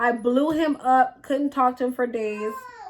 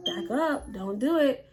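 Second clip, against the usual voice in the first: hushed warning; 6 dB quieter than usual. Retold or imitated. Silent warning between friends.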